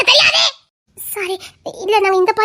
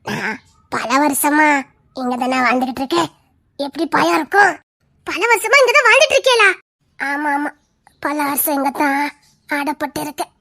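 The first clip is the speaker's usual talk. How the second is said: put-on eerie old ghost; 5 semitones lower than usual. Ghost grandmother telling travellers she has lived here for years, low and eerie. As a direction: croon it like a long-dead spirit.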